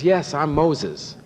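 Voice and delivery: mildly irritated. Retold or imitated. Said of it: "in an irritated voice says".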